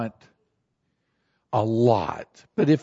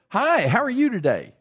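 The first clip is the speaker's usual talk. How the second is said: higher, chirpy hello to a cashier; friendly greeting; 8 semitones higher, 3 dB louder than usual. Acted. Friendly greeting to store clerk.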